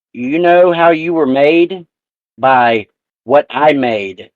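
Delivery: slow, dragged-out guilt trip. Retold or imitated. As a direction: lay the guilt on slowly. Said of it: "She goes".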